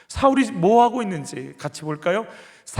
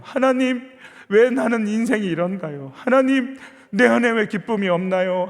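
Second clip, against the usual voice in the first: building prayer. Shown as a demonstration. Preacher models an escalating prayer.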